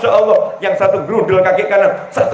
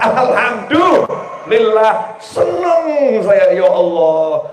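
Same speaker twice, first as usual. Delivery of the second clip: drawn-out grateful praise; slower than usual. Acted. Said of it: "wife thanks God repeatedly".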